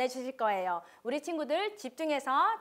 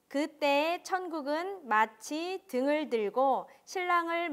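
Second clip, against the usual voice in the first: scripture reading; 3 dB louder than usual. Acted. Reads scripture aloud to children. (천천히 또박또박 성경 낭독)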